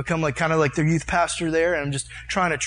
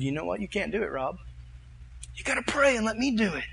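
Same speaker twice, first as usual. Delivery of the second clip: God; 4 semitones higher, 5 dB quieter than usual. Retold or imitated. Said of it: "And God himself said".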